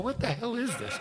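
high, laughing what-the-hell; laughing disbelief. Retold or imitated. Telling how he reacted to the boss, laughing. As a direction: laugh through the baffled question. Baffled laugh at the retold meeting.

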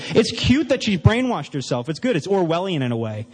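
mock-indulgent and smug; condescending. Looking down his nose at a religious woman, condescending. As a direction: patronise her as a harmless simpleton. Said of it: "I used to look down my nose at her".

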